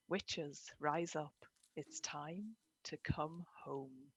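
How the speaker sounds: slow rhythmic poem recital; lilting irish storyteller. Shown as a demonstration. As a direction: recite it slowly, like a spell. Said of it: "this is often how words and poetry comes to me".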